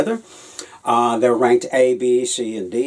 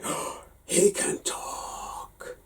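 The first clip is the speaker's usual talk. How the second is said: put-on astonished child; 8 semitones higher, 9 dB quieter, much slower than usual. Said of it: "a youthful voice, full of astonishment".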